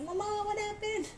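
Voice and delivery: put-on high little child asking, concerned; kids' voice. Kids asking their mother what happened, in a high child voice. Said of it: "So the kids can say".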